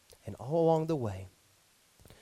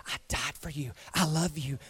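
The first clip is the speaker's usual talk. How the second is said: tender; 3 semitones lower than usual. Acted. Jesus speaking tenderly.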